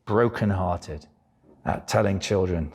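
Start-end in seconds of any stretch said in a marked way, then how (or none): 0.1-1.1 brokenhearted. Real, not acted. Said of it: "I am so".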